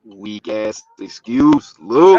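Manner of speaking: slow drawn-out call-out ending in a loud shout; teasing a friend for a weak excuse; mock scolding. Real, not acted. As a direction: drag the excuse, then yell his name. Calling out friend's late text.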